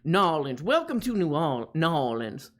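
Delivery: lightly put-on Cajun accent. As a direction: greet like a Louisiana local in Cajun. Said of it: "This is my Cajun accent".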